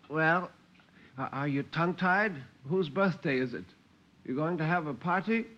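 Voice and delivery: high-pitched Granny, needling with questions; testy old Granny. Acted. Granny quizzing tongue-tied Cornelia, testy. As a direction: question them testily in a high voice.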